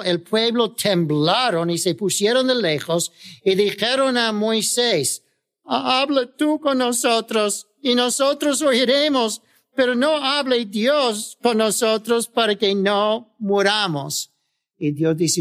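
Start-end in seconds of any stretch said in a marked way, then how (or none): 5.6-14.3 higher, pleading voice of the scared crowd; frightened people pleading. Acted. The terrified people beg Moses, pleading higher. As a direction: beg Moses to speak instead of God.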